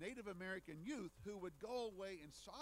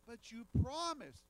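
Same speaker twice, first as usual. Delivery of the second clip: loud, shocked cry of betrayal; a young man crying out in pain and disbelief; cried out; 7 semitones higher, 14 dB louder than usual. A narrator's reading. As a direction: shout it out, stung and betrayed. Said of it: "cried the youth".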